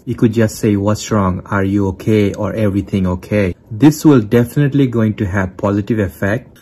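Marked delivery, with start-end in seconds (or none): 0.8-3.6 gentle, concerned check-in; caring question to a partner, a bit quieter; soft and caring. Shown as a demonstration. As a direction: ask softly, like you truly care. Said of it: "Soft and caring tone is very important".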